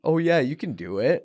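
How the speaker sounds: loud, high, singsong mock encouragement; exaggeratedly condescending cheerleading. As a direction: imitate someone patronizing with fake belief. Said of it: "that were condescendingly saying".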